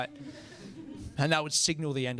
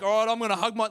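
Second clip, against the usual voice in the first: slightly raised, bracing mock effort; psyched-up weightlifter; 4 semitones higher, faster than usual. Dad braces to hug his son, weightlifter-style effort. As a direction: lightly imitate a lifter gearing up. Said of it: "like a weightlifter".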